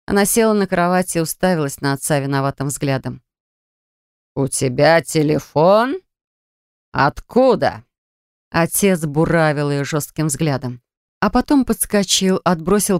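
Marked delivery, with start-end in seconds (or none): 4.4-7.9 slow, heavy father's questioning; strict father catching his daughter out; suspicious father. Acted. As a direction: drag out each word, menacing.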